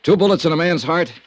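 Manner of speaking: measured hard-boiled narrator voice; noir narration. Acted. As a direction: tell it like a weary private eye looking back. Detective's narration over music.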